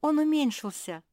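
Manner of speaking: high shout of discovery; excited cry. A narrator's reading. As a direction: call it out in surprise. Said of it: "закричала Рада".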